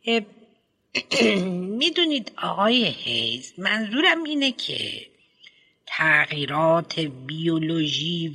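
lightly voiced headmistress, hesitant and prim; a hint of a prim school head choosing words; fussy headmistress. Headmistress explains biology and psychology.

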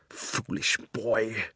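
soft, slow, cold scorn; scornful queen. Acted. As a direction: sneer it out quietly.

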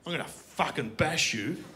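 slow, menacing threat; threatening bogan. Acted. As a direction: lean in and threaten, taking your time. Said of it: "he just leans in my face".

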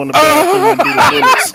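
high squeaky cartoon mouse voice; talking way up high like a cartoon mouse; Mickey Mouse voice. Real, not acted. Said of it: "Sound like Michael Mouse".

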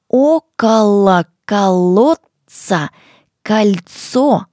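slow, with к, л, ц sharply articulated; crisp consonants. Shown as a demonstration. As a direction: land every к, л and ц crisply. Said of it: "старайтесь произносить звуки «к», «л», «ц» очень чётко".

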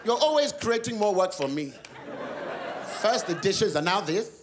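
laughing mock outburst at husband; mock angry shout. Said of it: "Mum turns to Dad and goes".

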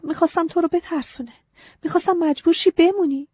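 put-on high, earnest child's voice confessing; young girl pleading. A narrator's reading. Agnes confessing to the scarecrow, high childlike pleading. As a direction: speak up as a small girl owning up.

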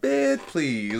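playful, lightly dismissive "bitch, please"; funny dismissal. Shown as a demonstration. Showing how to say it funny, playful dismissal. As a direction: toss it off as a joke. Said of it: "if you're saying it funny".

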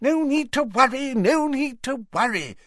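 high, hurried mock shout. A narrator's reading. Fudge shouting reassurance as he steps into the flames. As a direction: call it over the shoulder while leaving. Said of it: "Fudge had shouted".

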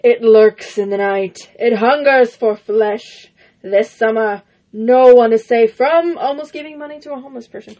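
loom over each word, movie-teaser style; horror trailer voice. Acted. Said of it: "That's terrible".

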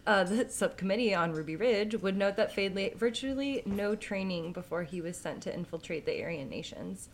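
talking while wrestling a dog; distracted, holding a squirming dog; holding down a pet. Real, not acted. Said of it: "I'm wrestling with a dog while I'm doing this".

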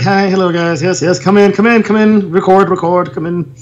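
light mock British accent. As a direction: imitate a busy British greeter ushering people in. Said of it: "He's, he's British".

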